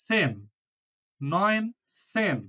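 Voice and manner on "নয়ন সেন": নয়ন সেন drawn out slowly, নয়ন stressed; slow model reading. Shown as a demonstration. Teacher modelling nineteen for the class, slow model reading. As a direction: stretch নয়ন সেন for learners. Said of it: "slow model reading".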